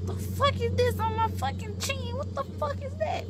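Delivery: high, loud alarmed yelp; retelling the moment of grossed-out shock; shocked disgust. Retold or imitated. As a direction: recoil in disbelief. Shocked at wetness on chin.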